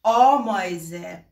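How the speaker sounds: آمایزه said with a rounded Persian آ; Persian-accented demo; wrong Persian آ version. Shown as a demonstration. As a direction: show the wrong vowel. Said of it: "با آ خودمون بگین میگین".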